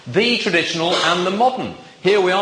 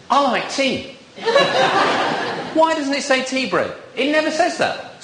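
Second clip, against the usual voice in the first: laughing; 8 semitones higher than usual. Real, not acted. Joking complaint about coffee break.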